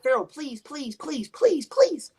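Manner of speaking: imitating a pleading woman, pitch climbing; imitating pleading girlfriend. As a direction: beg like she's hiding scared. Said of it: "that's how she sound".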